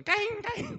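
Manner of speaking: high yelping kaing; dog yelp imitation. Shown as a demonstration. Preacher imitates a stepped-on dog yelping high. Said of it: "Bisa mengekspresikan".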